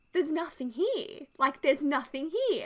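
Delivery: empty backyard, no chocolate; disappointed. Retold or imitated.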